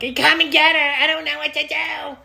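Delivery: high, loud panicky plea; mock panic, high and loud; panicked. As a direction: beg for help in a panic. Panicked call to girlfriend.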